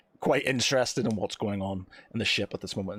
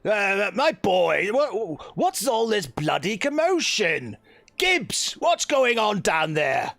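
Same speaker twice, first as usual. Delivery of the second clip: higher, slow blustering captain calling down; gruff ship captain; 8 semitones higher, 3 dB louder, slower than usual. Acted. Captain shouting down at the commotion on deck, blustering. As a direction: bellow down from the deck like an old captain. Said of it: "you hear it just like".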